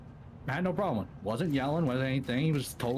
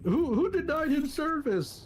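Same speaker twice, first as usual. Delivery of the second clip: angry demand; 3 dB louder than usual. Retold or imitated. Irate customer demanding answers.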